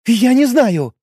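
high, agitated outburst; blurted out. A narrator's reading. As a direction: blurt it out, rattled. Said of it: "выпалила она".

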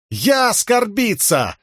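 high, slow, broken-Russian wail; shrieking Horneater accent. A narrator's reading. Shallan, faking a Horneater princess, wails at the soldier in a fake Horneater accent. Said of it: "завопила Шалан".

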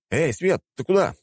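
high, incredulous call; pitched right up, puzzled shout; startled exclamation. A narrator's reading. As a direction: call after him in disbelief. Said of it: "воскликнул я".

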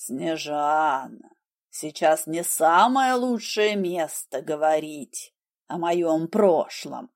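low, slow, ingratiating. Acted. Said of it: "вкрадчиво ответил Хелвард".

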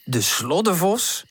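slow, speechless echo; stunned. Acted. Tante hearing about the sloddervos, stunned. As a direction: repeat it in disbelief. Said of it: "Tante is even sprakeloos".

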